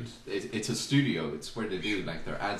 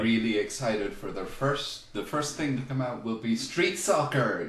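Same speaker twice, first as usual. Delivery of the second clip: sarcastic; 2 semitones higher than usual. Pretend. Podcaster feigning excitement for a street soccer show, sarcastic. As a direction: feign eager anticipation.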